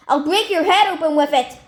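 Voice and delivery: high, loud furious threat; scream. Acted. Stephanie threatening the man with a poker, loud scream. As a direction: scream it to scare him. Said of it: "Stephanie screamed at him".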